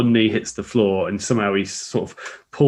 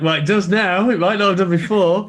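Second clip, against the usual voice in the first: mock deadpan quip; 9 semitones higher than usual. Retold Mansell quip.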